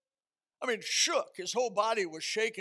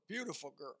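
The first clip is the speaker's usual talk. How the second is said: soft echo; 3 semitones lower, 8 dB quieter, faster than usual. Acted. Preacher echoing his praise of the wife, softer. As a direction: repeat it softer, half to yourself. Echoes praise of wife's beauty.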